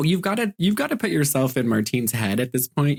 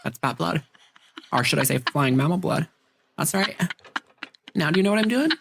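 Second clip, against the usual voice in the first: high, laughing mock professor voice; giddy over-the-top lecture on bat blood; hammed-up doctor; 6 semitones higher than usual. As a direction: play the smug doctor, giggling through it.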